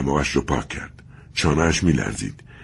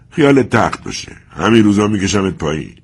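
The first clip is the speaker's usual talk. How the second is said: raised, defiant threat at the statue; defiant words to himself; 4 semitones higher, 4 dB louder than usual. Acted. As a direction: vow it under his breath but fiercely.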